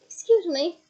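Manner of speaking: can't believe what he heard; incredulous. Acted. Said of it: "said Mister Diggory incredulously".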